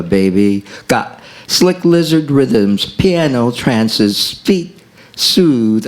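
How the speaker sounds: rhythmic, swinging jazz-poem recital; poem reading. Acted. Poet reciting a jazz poem, swinging rhythm. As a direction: read it to a bossa nova beat.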